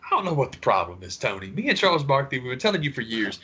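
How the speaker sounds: high mock pleading, laughing through it; imitating Wilbon. Talk-show host retold to co-host, high coaxing mock plea. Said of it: "and he was just like".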